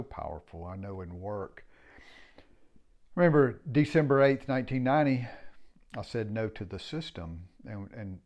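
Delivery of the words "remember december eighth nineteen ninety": emphatic date. Real, not acted.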